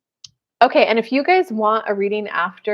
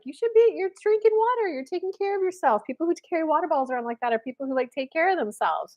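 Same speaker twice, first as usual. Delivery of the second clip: high voiced waitress; 7 semitones higher, faster than usual. Waitress voiced in retold story.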